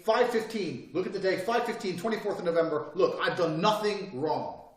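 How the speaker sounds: emphatic demo for the camera; firm statement for the tape. Retold or imitated. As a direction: spell it out for the record. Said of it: "acting out his police interview".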